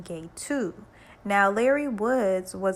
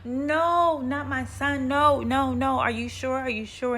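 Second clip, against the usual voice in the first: high-pitched imitation of a sobbing mother; mock wailing; 6 semitones higher, 4 dB louder, slower than usual. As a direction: wail it in hammed-up denial, starting high and loud, easing off. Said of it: "busts out in sobs and wailing and crying".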